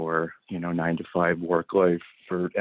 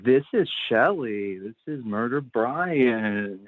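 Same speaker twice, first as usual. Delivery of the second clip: slow, stoned drawl; 4 semitones higher, slower than usual. Real, not acted. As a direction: talk like you're really high. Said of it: "Sorry, I'm really stoned right now".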